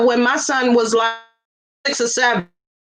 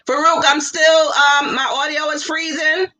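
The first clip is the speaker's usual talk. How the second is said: calling out; 4 semitones higher than usual. Real, not acted. Calling out about bad connection.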